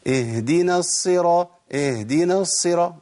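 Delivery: slow chanted "اهدنا الصراط" lacking its h; ha not sounded. Shown as a demonstration. Teacher repeats the mistake for contrast, ha missing. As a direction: recite "اهدنا" as ee-dina, h left silent. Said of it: "ما طلعتش هاء".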